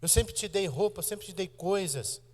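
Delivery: high-pitched, indignant retort, mock-quoting; arguing mother. Hairdresser scolding her grown daughter, high and indignant. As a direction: throw it back at her like a hurt mother mid-fight. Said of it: "discutindo com a filha dela".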